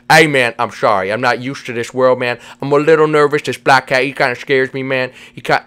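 goofy pal with slushy s sounds; mildly nervous cartoon buddy. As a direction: slur the s like "sh", a little uneasy. Voices Vinny, nervous of the cat.

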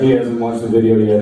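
laughing it out over the words; giggly mock disbelief. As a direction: crack up while saying it. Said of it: "he's like".

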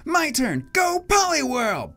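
high-pitched battle call; eager young trainer. Acted. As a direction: send it out in a high kid voice. Boy sends out his Pokemon.

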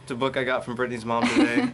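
laughing. Real, not acted. Retaking line while laughing.

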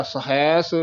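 ਸਹੈਸ with the ai vowel on the h; vowel on second syllable. Shown as a demonstration. Teacher contrasting vowel placements, careful pronunciation. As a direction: say ਸਹੈਸ as "sa-HAIS". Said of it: "ਜੇ ਹਾਹੇ ਦੁਲਾਵਾਂ ਲਾਈਏ ਤਾਂ ਬਣਦਾ".

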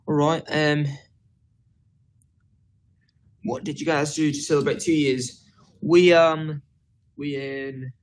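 attempted British accent, casual chat; amateur British accent on request. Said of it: "do a British accent".

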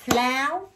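Flower said beat by beat with a light rise; listen-carefully syllable demo; syllables clapped. Shown as a demonstration. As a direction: clap out Flower for the pupil. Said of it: "Nghe kỹ này nha".

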